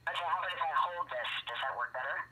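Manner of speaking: muffled by the phone mic; speaking through a covered mouthpiece; hand over mouth. Real, not acted. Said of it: "you sound like you're in, uh, muffled".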